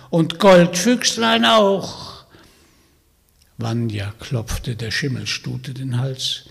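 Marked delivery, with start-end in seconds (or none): 0.1-2.2 put-on high, loud croaky old witch voice; croaking witch. Witch inviting Vanya home, croaking and sly. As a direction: play the sly old hag inviting him along. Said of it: "sagte die Baba Yaga".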